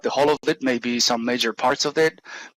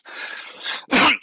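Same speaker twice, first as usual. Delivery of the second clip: throat clearing grunt; 13 semitones higher than usual. Real, not acted. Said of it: "grunting noises coming".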